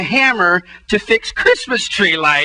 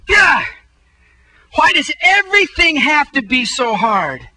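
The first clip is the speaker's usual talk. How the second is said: exasperated cry to God; 4 semitones higher than usual. Retold or imitated. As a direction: throw up your hands and cry out. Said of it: "And finally I go".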